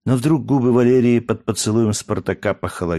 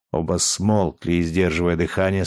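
ordinary delivery, nothing marked

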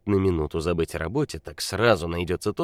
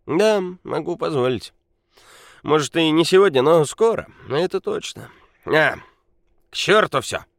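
put-on loud drunk bragging; 5 semitones higher, 6 dB louder than usual. A narrator's reading. Drunk Nikola brags, shouting.

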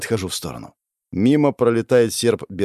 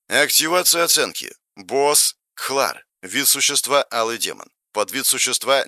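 even, subdued interface voice; game system readout; 3 semitones higher than usual. Acted. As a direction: read the stats like a machine.

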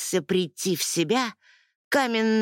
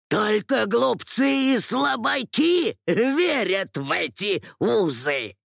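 sneering villain. Acted.

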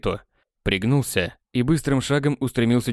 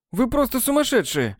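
indignant; 12 semitones higher than usual. A narrator's reading. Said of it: "возмутился Недоморф".

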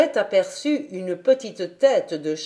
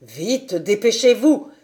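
hurried call, louder at the end; urgent call; 5 dB louder than usual. A narrator's reading. Sébastien calls to the child at the door, urgent. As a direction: call out to hurry someone in, rising in force. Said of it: "lui cria".

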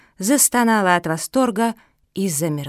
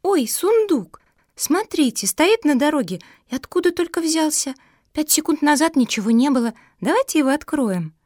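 put-on higher, thrilled little-girl voice; excited exclaim; 7 semitones higher than usual. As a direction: spot the chest and squeal with delight. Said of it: "как Куки воскликнула".

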